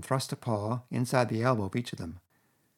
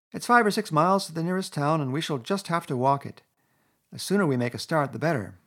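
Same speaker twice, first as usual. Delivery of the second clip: 1.tags: grim Rat; 6 semitones higher, 4 dB louder than usual. A narrator's reading. Rat continues grimly.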